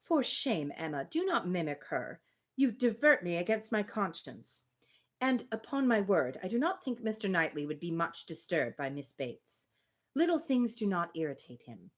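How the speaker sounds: steady, even reading of period dialogue; reading a novel aloud. Acted. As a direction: read the two women's exchange like a classic novel. Reads Emma passage aloud.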